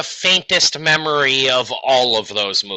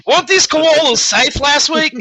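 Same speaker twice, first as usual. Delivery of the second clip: high, loud alarmed whine; mock panic; 6 dB louder than usual. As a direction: shriek out the question in panic. Panicked Australian voice.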